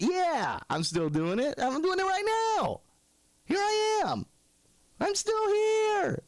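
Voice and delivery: high-pitched comic protest; exasperated insistence. Acted. Telling a forgetful fan he still exists, exasperated.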